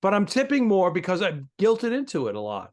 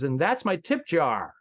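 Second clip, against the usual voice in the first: smiling tip jar line. Retold or imitated. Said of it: "with a big smile on his face".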